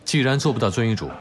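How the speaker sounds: a cold doctor raising his voice; stern dismissal. Acted. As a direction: send the patient away sharply. Doctor coldly dismisses patient.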